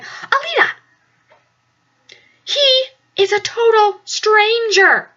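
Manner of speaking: high, slow, whiny scolding; mock scolding roommate. Roommate scolding Alita in a high, drawn-out whine. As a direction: drag it out like a worried roommate. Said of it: "she's like".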